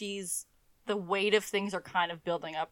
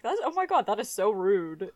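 offended Caroline; 5 dB louder than usual. Retold or imitated. Voicing Caroline's offended reaction.

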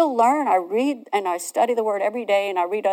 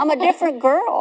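joyful exclaim; 7 semitones higher than usual. Real, not acted. Woman tells host she is changed, bright and exclaiming. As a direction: proclaim your new self gladly.

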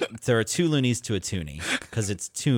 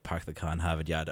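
put-on Boston accent; 6 semitones lower, 7 dB quieter than usual. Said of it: "that skit on S N L".

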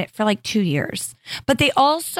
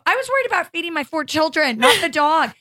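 higher, laughing "not the dog"; defensive mom cracking up; mock-exasperated mother to daughter; laughing exasperation; 6 semitones higher than usual. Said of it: "I go".

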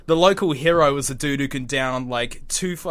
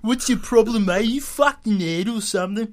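loud, higher-pitched Aussie squabble; hammed-up Australian row between mates; Daryl and Damo; 5 semitones higher, 5 dB louder than usual. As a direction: pick a fight over a lighter, pitched up and loud. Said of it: "Daryl and Damo".

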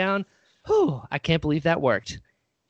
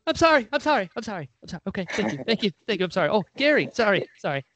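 flustered apology; 6 semitones higher, faster than usual. Retold or imitated. Near-spill of the Coke retold.

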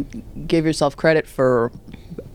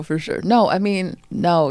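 normal talking voice

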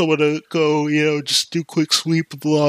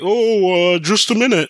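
higher, louder mock voice of the man in the bathroom; a stranger bluffing through a locked door, higher and louder; stalling stranger; 8 semitones higher, 5 dB louder than usual. Man in bathroom stalling the worker, higher and louder.

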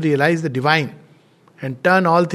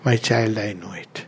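a light hint of a mother smiling softly, fading to near silence on the last words; smiling and tender; 5 semitones lower, 4 dB quieter than usual. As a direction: say it like a gentle mother who already knows. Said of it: "mother smiled and said".

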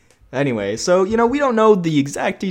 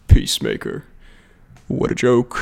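Rick Flag line; 5 semitones lower than usual. Retold or imitated. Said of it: "he goes".

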